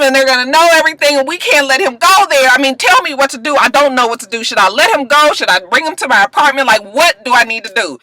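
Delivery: imitated panicky phone call; acted frantic. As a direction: rattle it off as an urgent plea. Acting out Bonnie's frantic phone call.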